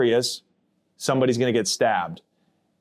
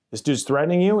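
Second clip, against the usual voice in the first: confused; 4 semitones higher, faster than usual. Retold or imitated. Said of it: "he's confused and he goes".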